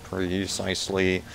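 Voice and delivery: slow, stiff robot voice; imitating the robot line, slowly. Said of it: "Precisely in the robot voice".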